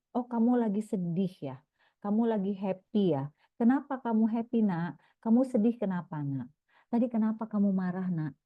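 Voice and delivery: put-on gentle, caring questions to a child; validating mother. Shown as a demonstration. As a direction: show you really want to hear how they feel. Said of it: "ini validasi deh". (ibu bertanya dengan lembut dan penuh perhatian)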